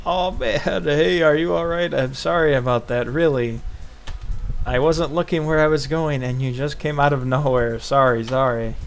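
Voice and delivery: lightly voiced girl apologizing after a collision; energetic Emi voice. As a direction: blurt the apology like a hurried girl. Emi voiced while reading game.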